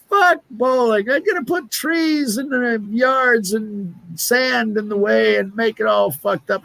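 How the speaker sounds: put-on high, drawn-out drunken Scottish accent; drunk Scotsman. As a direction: rant like a sozzled Scot. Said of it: "a couple of Scotsmen. They're drunk. They go".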